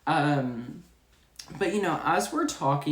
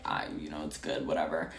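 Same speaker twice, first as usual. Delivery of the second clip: much lower and softer, near a whisper; whispered reply; 12 semitones lower, 8 dB quieter than usual. Retold or imitated. Cashier whispering back to the embarrassed contractor, hushed. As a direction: hush it back so she can't hear.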